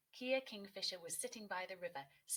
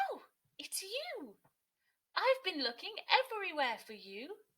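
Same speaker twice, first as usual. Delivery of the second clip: excited discovery; 10 semitones higher, 9 dB louder than usual. A narrator's reading. Both birds finally meeting, joyful and loud. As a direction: draw it out in delight. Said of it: "the two birds said".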